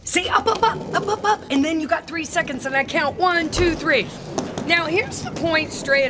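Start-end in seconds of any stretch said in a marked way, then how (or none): 0.0-1.4 high, loud, bouncy chant of up up up; coach's rally cry, high and loud; loud encouraging call. Shown as a demonstration. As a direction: cheer the kid back to their feet. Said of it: "I tell them".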